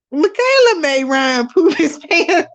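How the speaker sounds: high, slow, laughing through the words; cracking up. Real, not acted. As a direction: dissolve into real laughter. Cracking up at her own line.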